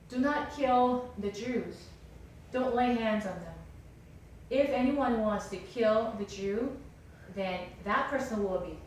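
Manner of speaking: loud, emphatic proclamation; forceful official announcement, firmly spaced; royal edict. Retold or imitated. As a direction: proclaim it like a king's decree.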